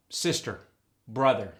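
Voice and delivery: SISTER and BROTHER with the final R sounded; standard R. Shown as a demonstration. Coach giving the standard English model, sister and brother with full R. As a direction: say sister, brother with clear R endings. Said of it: "In standard English".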